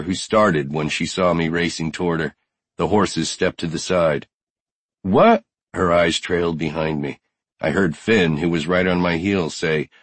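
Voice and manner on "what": high, loud rising question; startled. Acted. Horse handler sees Brody racing toward her, startled question. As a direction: blurt it out, taken aback.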